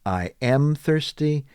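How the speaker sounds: "I am" as two words; uncontracted "I am thirsty"; full form. Shown as a demonstration. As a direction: keep both words apart. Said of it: "Instead of saying".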